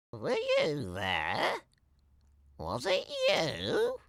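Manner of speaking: soft, suspicious questions; quiet questioning. A narrator's reading. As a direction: ask the cat quietly. Townsfolk question their cats.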